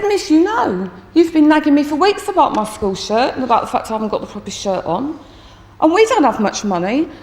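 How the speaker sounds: mock childish complaint; upset crying pupil. Tearful boy protests to his teacher about his school shirt, upset. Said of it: "And he's still crying".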